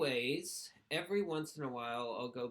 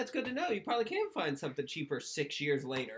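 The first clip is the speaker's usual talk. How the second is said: sarcastic; 5 semitones higher, 5 dB louder than usual. Retold or imitated. Sarcastic reply to commenters.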